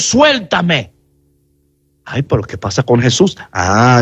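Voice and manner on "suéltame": a gentle let-go-of-me; Jesus saying let go. Acted. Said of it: "le dijo a Jesús".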